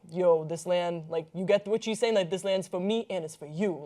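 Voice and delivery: lightly put-on New York accent, casual and slangy; Hillary Clinton voice. Podcaster spoofing a politician's retweet, light mock New York accent. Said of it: "That is my Hillary Clinton impression".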